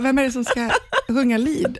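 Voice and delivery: asking through a laugh; laughing self-quote. Retold or imitated. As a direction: quote yourself while laughing. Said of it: "Jag bara". (citerar sig själv skrattande)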